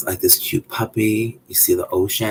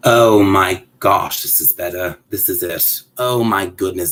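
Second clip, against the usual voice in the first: doll owner amazed that the fix worked, genuine surprise; a burst of real amazement, then settling; real surprised reaction; 4 dB louder than usual. Real, not acted. Reacting to a doll's hair coming out right, pleasantly surprised. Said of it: "that's my real reaction".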